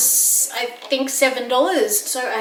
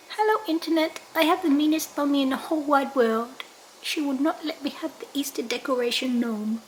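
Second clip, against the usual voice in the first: whiny dog voice; 3 semitones higher, 6 dB quieter than usual. Pretend. Mother voicing her dog greeting viewers, whiny then whispered. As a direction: complain like a hard-done-by puppy.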